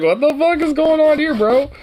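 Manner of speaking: high-pitched retold disbelief; mock bewildered outcry. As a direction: act out your baffled reaction, voice way up. Retelling own startled reaction.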